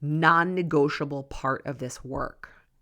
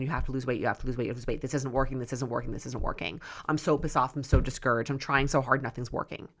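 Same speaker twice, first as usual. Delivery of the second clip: nagging inner critic; 3 semitones lower, faster than usual. Retold or imitated. Coach voicing a client's discouraged inner thoughts, low and fading. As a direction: mimic the spiral of thoughts in your head, fading out. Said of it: "the screaming noise in your head".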